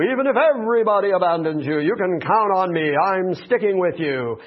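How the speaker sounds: loud, boastful oath of loyalty; mock boastful Peter. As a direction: brag like a cocky fisherman. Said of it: "Peter's very fond of saying things that are braggadocious".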